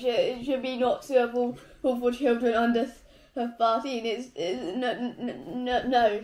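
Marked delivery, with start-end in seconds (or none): 4.0-6.2 laughing, then loud no; laughing refusal. Real, not acted. Refusing sour candy.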